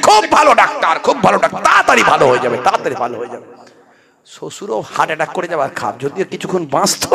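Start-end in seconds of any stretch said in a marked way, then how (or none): 0.1-3.5 mock cheerful praise. Son cheerfully praising the doctor.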